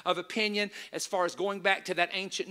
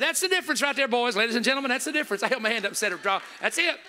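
triumphant; 3 semitones higher, 4 dB louder, faster than usual. Retold or imitated. Preacher retelling his triumphant reply.

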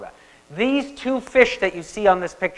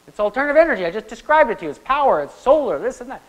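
indignant insistence; 5 semitones higher, 4 dB louder, faster than usual. Retold or imitated. Teacher retells his own indignant reply.

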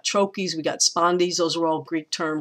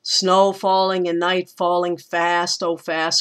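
scanned with beats on SNOW, NIGHT, FAST, FAST; four beats. Shown as a demonstration. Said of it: "we got those four beats".

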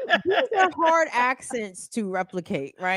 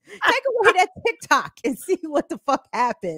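higher-pitched, heated challenge; fired-up dare; 5 semitones higher than usual. Acted. Host daring Congress to take TikTok away, fired-up dare. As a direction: repeat the threat with heat. Repeats the dare after laughter.

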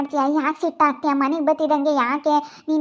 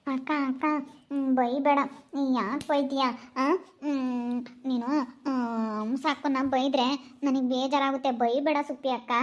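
quieter, timid plea to stop the scolding; soft pleading; 5 dB quieter than usual. Acted. Younger girl softly begs the elder sister to stop scolding. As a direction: gently beg the sister not to scold.

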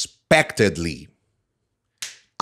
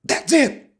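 high-pitched exclamation; excited cry; 13 semitones higher than usual. Acted. Narrator's outburst in the lesson story, excited cry. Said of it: "I cried".

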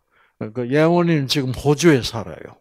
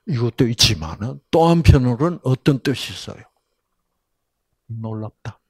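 usual speaking voice

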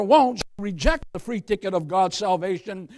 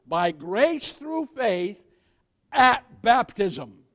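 very slow, each word set apart; drawn-out proclamation; slow and deliberate; much slower than usual. Shown as a demonstration. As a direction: spell out "By grace through faith at baptism" slowly for the congregation. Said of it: "Did you hear what I said?".

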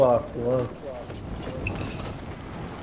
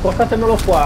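calling out; 7 semitones higher, 5 dB louder than usual. Real, not acted. Calling teammates to the turret.

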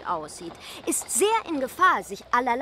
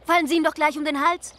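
higher, louder mock delight; mocking tease; 4 semitones higher, 4 dB louder than usual. Daughter teasing the Marquis, with mock delight. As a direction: needle him with fake cheer. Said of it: "Mademoiselle liebt die Neckerei".

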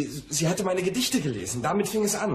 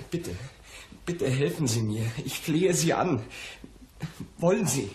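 anxious pleading; 4 semitones higher than usual. Acted. Anxious client begging for help.

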